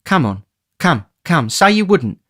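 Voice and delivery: woman's tenderness, rising to a plea; tender coaxing. Acted. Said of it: "a woman's tenderness".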